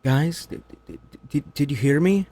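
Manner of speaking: high, hesitant mock plea; timid leader. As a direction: weakly beg to be heard. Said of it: "What most people would have been like".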